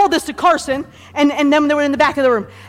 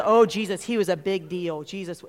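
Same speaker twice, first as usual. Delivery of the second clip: hushed awe; 6 semitones lower, 9 dB quieter than usual. Acted. Mimics people awed by Jesus.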